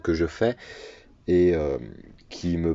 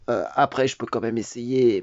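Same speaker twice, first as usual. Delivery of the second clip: forced character voice; 3 semitones higher than usual. Shown as a demonstration. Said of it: "celle-ci, je suis obligé d'appuyer".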